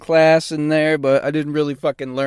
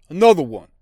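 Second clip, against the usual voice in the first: mock DJ hype; 3 semitones higher, 4 dB louder, faster than usual. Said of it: "The D J has to announce their name".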